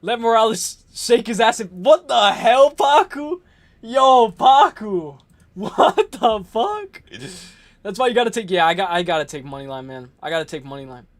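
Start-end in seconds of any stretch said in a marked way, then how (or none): 1.8-7.0 slow, drawn-out exasperation; mock outrage. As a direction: stretch each word in playful disbelief.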